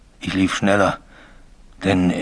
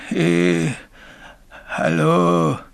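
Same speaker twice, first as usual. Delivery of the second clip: drawn-out, higher call, rising in intensity; calling ghost voice; 7 semitones higher, much slower than usual. Acted. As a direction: imitate a phantom calling someone's name. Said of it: "hörte ich auch die rufende Stimme". (langgezogene, rufende Geisterstimme)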